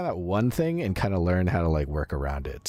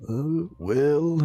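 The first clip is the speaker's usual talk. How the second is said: Reagan impression; 10 semitones higher, 3 dB louder than usual. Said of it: "for Reagan, him was always like".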